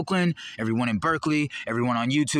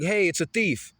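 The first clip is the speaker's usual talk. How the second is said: mock shout; 7 semitones higher, slower than usual. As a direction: call out like spotting a thief. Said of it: "for shouting".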